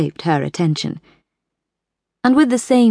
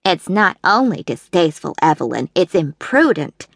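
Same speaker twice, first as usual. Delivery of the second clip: agreeing. A narrator's reading. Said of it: "Sally Pearson agreed".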